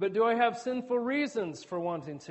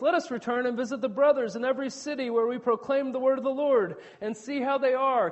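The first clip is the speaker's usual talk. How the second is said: raised, louder, upbeat reading of a quote; joyful; 4 semitones higher, 4 dB louder than usual. Retold or imitated. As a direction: imitate joy ringing in the voice. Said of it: "you almost hear joy ringing in his voice".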